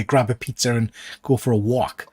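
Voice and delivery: put-on a light New York accent on the whole line. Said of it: "that was my New York accent there".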